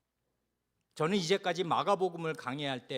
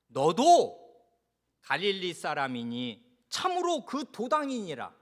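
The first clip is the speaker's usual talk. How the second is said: sudden loud jab on the opening word; pressing accusation; 4 dB louder than usual. Acted. Bystanders turn on Peter, pressing him loudly. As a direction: confront him with a burst of volume. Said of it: "하고 추궁합니다".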